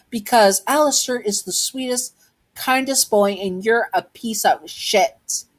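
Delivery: high-pitched start, dropping for the insult; acted scornful comparison; defiant defence. Child praises friend, insults bully.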